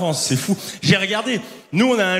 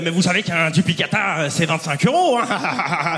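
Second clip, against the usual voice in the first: mock contempt; 3 semitones lower than usual. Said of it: "hyper méprisante en plus".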